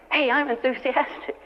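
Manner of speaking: a touch of playful delight at feeling good; slowly savouring a sudden burst of enthusiasm; mock enthusiasm. Acting out newfound enthusiasm.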